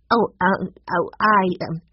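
flustered, halting stammer; sputtering. A narrator's reading. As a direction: stumble over false starts, lost for words. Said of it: "Violet sputtered".

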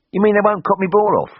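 can't quite believe the good news; hopeful Brummie cry. A narrator's reading. Patient checks with the vet in disbelief, high Brummie cry.

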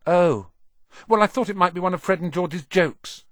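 put-on high, sheepish young boy; shy boy voice. A narrator's reading. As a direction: explain it a bit embarrassed. Ron explains himself.

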